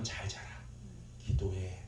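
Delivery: low, subdued mimicked orders; scolding group leader. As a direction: lightly imitate a stern leader's orders. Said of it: "혼내요". (낮게 깔고 혼내는 흉내)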